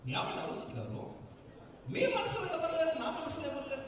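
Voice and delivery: a mild hint of the Pasupathi villain voice, laughing; lightly hammed-up villain teasing Arundhati; Pasupathi spoof. Comedian spoofs Pasupathi taunting Arundhati, mild hammed villain. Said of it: "Arundhati spoof అండి".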